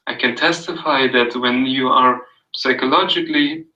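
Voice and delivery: calm, even read-aloud of a passage; soothing reading. Acted. Reading Carl Rogers to a friend, soothing read-aloud. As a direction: read it gently, like an audio book. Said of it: "It was so soothing".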